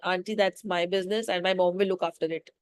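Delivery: mildly polite, measured reply; nicely. Shown as a demonstration. Showing how the daughter should answer aunty, nicely. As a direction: put it nicely and evenly. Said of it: "She could have said nicely".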